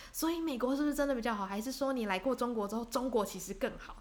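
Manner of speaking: pushy questioning. Retold or imitated. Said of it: "很想要他下一个结论".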